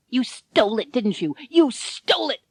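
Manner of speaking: pointing the finger, half-joking; accusing. A narrator's reading. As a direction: Ken catching Harvey out. Ken accuses Harvey.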